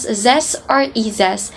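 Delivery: TH said as Z in "zest or izes"; French Z for TH. Shown as a demonstration. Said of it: "It was pronounced as".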